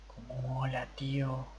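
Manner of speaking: whispered awe. Real, not acted. Admiring his build quietly.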